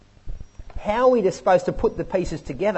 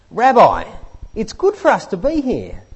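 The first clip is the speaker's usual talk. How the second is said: Peter blurting; 4 semitones higher, 4 dB louder than usual. Retold or imitated. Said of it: "he comes out with this".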